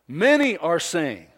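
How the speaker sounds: loud, emphatic quoting of the enemies; taunting foes. Acted. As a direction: hit each "many" hard, then jeer. Voices the taunts of many foes.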